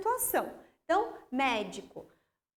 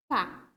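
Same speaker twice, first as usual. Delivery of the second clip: "pá" alone, short and emphatic, falling; stressed syllable; 6 semitones lower than usual. Shown as a demonstration. Teacher pointing out the tonic syllable, "pá" said alone with emphasis. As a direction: isolate "pá" as the strong syllable. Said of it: "Minha última sílaba tônica".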